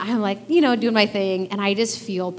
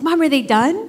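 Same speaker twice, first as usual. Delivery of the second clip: put-on a bit higher, eager little girl asking; child's voice; 6 semitones higher, 5 dB louder than usual. Mom voicing her daughter asking about muffins.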